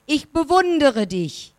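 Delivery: distant answering echo. A narrator's reading. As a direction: throw it back like a mountain echo. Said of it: "Die Stimme antwortet".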